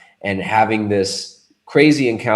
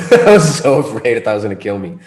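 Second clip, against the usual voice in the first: laughing; 5 dB louder than usual. Real, not acted. Laughing at his own fear.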